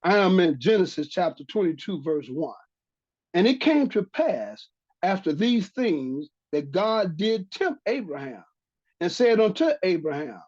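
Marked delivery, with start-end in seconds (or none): 3.3-10.4 scripture reading. Acted. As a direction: read the verse out solemnly to listeners. Reads scripture aloud.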